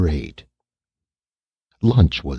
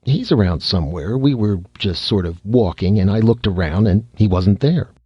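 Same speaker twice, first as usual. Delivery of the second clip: careless; 3 semitones higher than usual. Acted. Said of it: "Red said carelessly".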